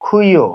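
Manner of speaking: teacher modelling খুইয়ো as Japanese kyuu; Japanese kyuu said carefully. Shown as a demonstration. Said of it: "এটার উচ্চারণ হবে".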